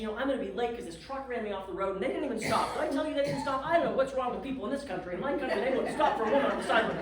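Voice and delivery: fast, rising rant on the phone; going off. Retold or imitated. Ranting to the bed and breakfast lady about the truck. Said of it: "And I just go off".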